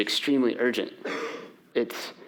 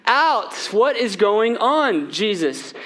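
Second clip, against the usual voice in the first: higher, mock-panicked pleading; freaking out; 7 semitones higher, slower than usual. Pastor acting the frightened disciples, mock panic. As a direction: ham up the frantic disciples. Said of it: "Kevin McAllister style".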